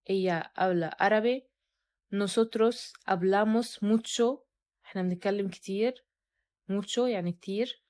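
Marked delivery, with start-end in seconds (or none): 0.1-4.4 slow, clear model sentences, each one lifted at the end; slow drill. Shown as a demonstration. Teacher drilling the class, slow and clear. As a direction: drill them slowly for the class. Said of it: "teacher drills Spanish sentences".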